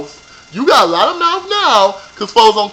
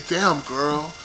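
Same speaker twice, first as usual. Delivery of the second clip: mock impressed boyfriend; 4 semitones lower, 10 dB quieter than usual. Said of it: "Did he say".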